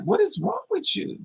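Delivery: imitating an addict cooing innocently; mock sweet addict. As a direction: coo it like a sly sweetheart.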